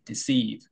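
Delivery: deceive with a drawn-out "ee"; slow deceive, holding the long ee; long vowel. Shown as a demonstration. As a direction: stretch the second syllable of deceive. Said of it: "장모음이라고 해야 되겠죠".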